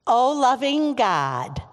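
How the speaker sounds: slow, projected prayer call. Real, not acted. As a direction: call it out for all to follow. Leading children's call-and-response prayer.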